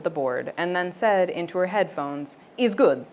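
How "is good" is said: put-on light Italian engineer accent; a hint of an Italian sound engineer; casual Italian accent, approving. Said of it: "the engineer ... is Italian".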